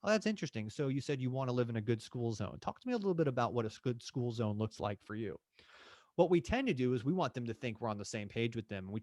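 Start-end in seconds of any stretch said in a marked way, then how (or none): 0.0-5.4 lightly curious, interested agent asking follow-up; curious agent demo. Shown as a demonstration. Agent showing interest in the client's answer, lightly curious. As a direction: lean in with real interest. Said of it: "That's what active listening is".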